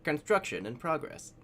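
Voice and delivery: flat, even robot announcer voice. Retold or imitated. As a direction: say it like a game robot voice. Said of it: "the little robot voice from Command and Conquer".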